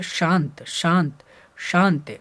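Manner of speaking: शांत repeated with a clear "sh" onset; teacher drilling the hushing sound in शांत; palatal श demo. Shown as a demonstration. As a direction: say शांत singly, each starting "shaa". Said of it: "अभी मैं बता रहा हूँ कि ये जो".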